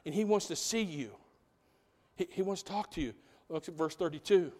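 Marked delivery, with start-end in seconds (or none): 0.1-3.2 softly voiced, imitating a discreet whisper; mock whisper. Martha tells Mary the teacher is here, mildly hushed. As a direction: pass it on quietly, not truly whispered. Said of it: "quietly whispers".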